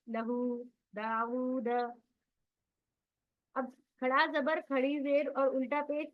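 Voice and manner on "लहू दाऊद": लहू with the final "oo" held two beats; stretched long vowels. Shown as a demonstration. Teacher demonstrating ulta pesh examples, stretched long vowels. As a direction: draw out "aa" and "oo" in दाऊद.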